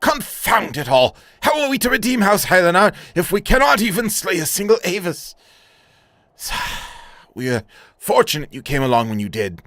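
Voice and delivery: an exasperated knight, loud outburst then calmer thanks; frustrated knight. Acted. Knight of House Helenar fumes at defeat, then thanks the hero.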